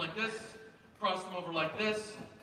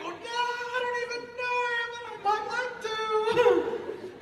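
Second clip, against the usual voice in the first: high, slow laughing fan voice; mock dreamy fan; 3 dB louder, slower than usual. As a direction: play a smitten stranger with a laugh. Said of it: "You're like".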